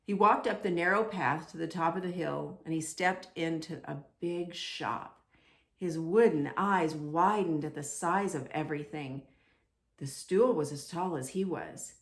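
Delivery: put-on lively storybook narration for kids; animated read-aloud for little ones; reading to children. A narrator's reading. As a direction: tell it like a bedtime picture book. Reads picture book to children.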